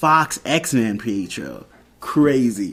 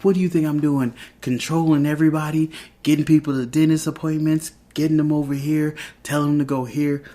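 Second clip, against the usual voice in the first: higher-pitched rattled-off list of mock grievances; snapping out; 5 semitones higher than usual. Wife answers husband's accusation of controlling everyone, snapping out. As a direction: imitate an exasperated outburst, mildly heated. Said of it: "She's just snapping out".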